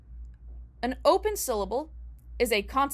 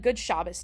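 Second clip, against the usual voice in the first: "Good Shabbos" with SHAB stressed, second syllable light; first-syllable stress; 4 semitones lower than usual. Shown as a demonstration. Greeting people on the street, "Shabbos" stressed on SHAB. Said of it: "putting the emphasis on the first syllable".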